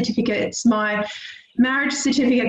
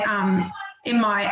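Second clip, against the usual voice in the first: choking up; 3 semitones lower, slower than usual. Real, not acted. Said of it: "sorry for being emotional".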